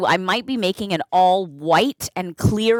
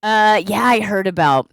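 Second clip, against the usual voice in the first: feeling sick; 3 semitones lower, faster than usual. Real, not acted. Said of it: "can tell from my voice".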